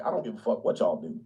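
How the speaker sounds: lightly voiced blunt redneck; hint of don't-care brush-off; gruff conservative. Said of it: "They just be like".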